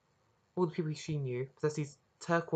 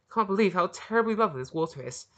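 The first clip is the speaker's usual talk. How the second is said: shrill; 6 semitones higher, 8 dB louder than usual. Acted. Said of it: "she said shrilly".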